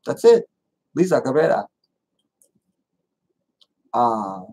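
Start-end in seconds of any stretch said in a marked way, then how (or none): 0.9-1.7 "Lisa Cabrera" with tapped Spanish r's; Spanish pronunciation. Shown as a demonstration. Vlogger confirming a Spanish name, "Lisa Cabrera" pronounced in Spanish. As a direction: say "Cabrera" as kah-BREH-rah. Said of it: "that's how you say it".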